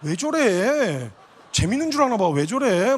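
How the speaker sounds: slow, drawn-out annoyed protest, the last bit muttered under breath; mock-offended teenager brushing someone off; irritated snap. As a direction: imitate a girl bristling at a prank. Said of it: "완전히 정색하면서".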